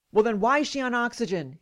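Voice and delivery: mildly forceful, exasperated doctor; imitated demanding. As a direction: demand it, hitting WHY. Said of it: "he demanded".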